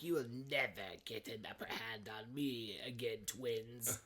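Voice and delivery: mock menacing villain; Cobra Commander. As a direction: vow it low, in character. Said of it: "Cobra Commander's like".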